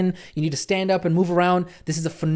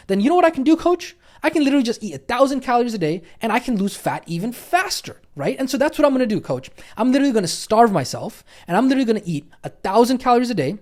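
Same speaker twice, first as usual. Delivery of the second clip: lightly acted student, pitched higher; a touch of overconfident eagerness, raised pitch; eager student; 5 semitones higher than usual. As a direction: play a student who thinks they have it figured out. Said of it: "you might be thinking".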